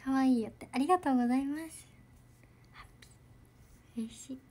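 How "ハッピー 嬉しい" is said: breathy slow whisper of happiness; soft whisper. Real, not acted. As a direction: breathe the word out slowly. Reading a happy comment. (小さくささやく)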